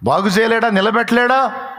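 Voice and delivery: high, loud rising sermon cry; fervent preaching. Real, not acted. Preacher assuring the sick congregation, in full fervent cry. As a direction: thunder out God's power to heal.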